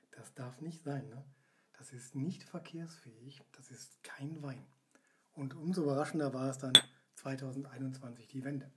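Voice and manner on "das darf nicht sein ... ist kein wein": whispering. Retold or imitated. Quoting the committee's verdict.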